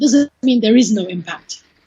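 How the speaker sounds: plain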